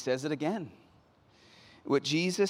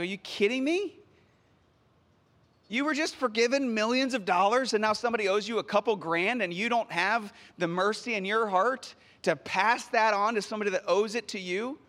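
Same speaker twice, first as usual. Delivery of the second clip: higher-pitched, incredulous telling-off; indignant disbelief; 4 semitones higher than usual. Acted. Preacher reacts to the unforgiving servant, indignant. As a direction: challenge him in raised-pitch disbelief.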